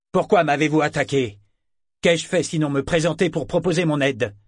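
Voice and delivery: loud, high, hammed-up indignation; outraged virtue. Priest playing outraged to the crowd, hammed-up. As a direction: make a show of being wronged. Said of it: "se décida pour la vertu outragée".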